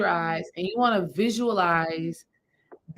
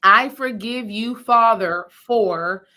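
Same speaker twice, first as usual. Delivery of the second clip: slow and louder, each word spoken out; firm spoken forgiveness; 5 dB louder, much slower than usual. Shown as a demonstration. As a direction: declare it aloud, not in your head. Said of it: "I want you to say the words".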